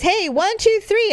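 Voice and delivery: rising, building count to three; a hint of Dad announcing a reveal; dad's countdown. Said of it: "and Dad goes".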